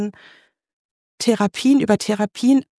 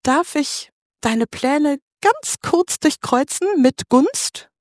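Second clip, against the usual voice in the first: gentle, higher, slow asking voice; voice of God; 4 semitones higher, slower than usual. Retold or imitated. God gently asking Jenny to change her plans, higher and slow. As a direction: ask sweetly, as if a small favour. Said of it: "kommt Gott und fragt mich".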